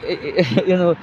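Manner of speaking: hammed-up whining bus driver; imitating driver. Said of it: "he went".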